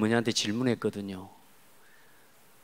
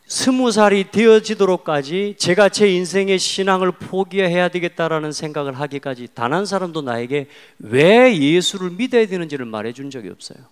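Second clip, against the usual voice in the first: impassioned preaching; 5 semitones higher, 6 dB louder than usual. Acted. Preacher testifying that nobody told him why, impassioned. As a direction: pour it out to the congregation, stressed and forceful.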